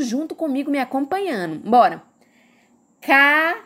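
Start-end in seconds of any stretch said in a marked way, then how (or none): 3.0-3.6 "Caderno" split as ca, der, no; syllable by syllable. Shown as a demonstration. Teacher asking everyone to follow along, "Caderno" said in separated syllables. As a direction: leave gaps between the three parts of "Caderno". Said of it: "Foram quantas sílabas?".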